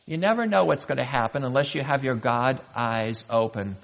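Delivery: ordinary talk, nothing marked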